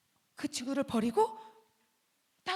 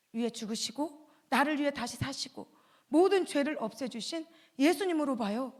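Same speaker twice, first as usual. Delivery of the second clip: usual speaking voice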